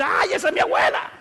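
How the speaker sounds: high, loud cry of recognition; retelling his excited shout during prayer. Retold or imitated. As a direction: shout out the name you just saw. Recalled shout during prayer vision.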